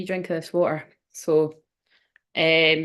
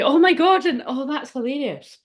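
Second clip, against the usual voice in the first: delighted; 5 semitones higher than usual. Real, not acted. Sudden delight at her mug.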